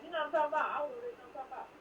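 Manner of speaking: "talking about" run together as "talmbout"; Southern everyday talk, "talking about" squeezed into "talmbout"; Southern vernacular. Shown as a demonstration. Southerner showing how her own people talk, Southern vernacular. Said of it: "that's a Southern kind of vernacular".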